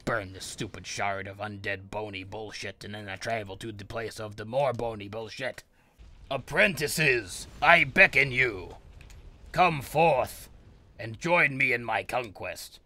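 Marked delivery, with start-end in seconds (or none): 6.3-12.8 slow, drawn-out grand summons; hammed-up wizard slowly calling his apprentices; slow summoning call. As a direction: intone it like a pompous sorcerer.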